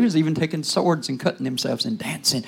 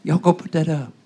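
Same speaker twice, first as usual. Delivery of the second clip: laughing retort. Retold or imitated. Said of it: "I said".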